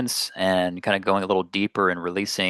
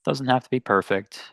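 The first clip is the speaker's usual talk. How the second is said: unhurried meditation guidance with long pauses; guided meditation; 2 semitones higher than usual. Real, not acted. Meditation teacher settling listeners into their seats, guided meditation. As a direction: gently lead listeners inward, leaving space between phrases.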